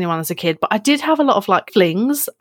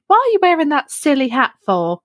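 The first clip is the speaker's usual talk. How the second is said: scolding nan; 7 semitones higher than usual. Retold or imitated. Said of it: "my nan went".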